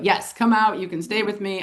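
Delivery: mildly excited retold invitation; excited welcome. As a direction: imitate an eager host, lightly. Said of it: "He's all excited".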